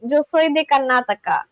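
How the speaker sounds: Karnataka with a Spanish accent. Real, not acted. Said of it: "like, a Spanish accent".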